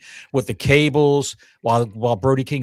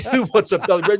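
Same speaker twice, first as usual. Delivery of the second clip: high sing-song pet talk; baby talk; 5 semitones higher, faster than usual. Acted. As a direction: coo like talking to a puppy.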